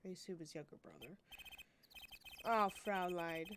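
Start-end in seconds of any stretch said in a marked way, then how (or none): 2.5-3.5 slow, smooth mock German; a lightly voiced German charmer; German accent. Rock star greeting the girl, slow mock German. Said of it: "He's German".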